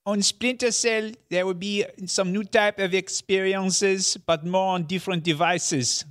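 hammed-up French-accented executive; mock French accent as Yves Guillemot. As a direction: read the CEO quote in a thick French accent. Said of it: "You have to do the accent".

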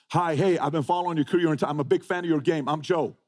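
a hint of an overly nice newcomer; friendly polite intro. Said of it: "Who talks like this?".

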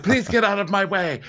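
high-pitched exasperated request; mock pleading. Host mimics Lisa trying to get past, mildly hammed-up plea.

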